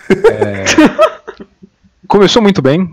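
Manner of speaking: high nervous giggle; nervous laughing. Real, not acted. Awkward question, nervous laugh.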